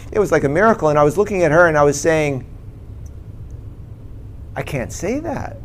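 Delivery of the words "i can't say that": soft, higher, halting retold struggle; choked up. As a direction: imitate words sticking in the throat. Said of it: "it would get stuck in my throat".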